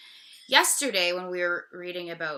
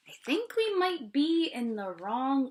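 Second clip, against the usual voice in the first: whispered worry; anxious cow; 5 semitones higher than usual. Acted. The cow frets to the others in the restaurant, whispered. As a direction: whisper it nervously. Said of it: "with an anxious face".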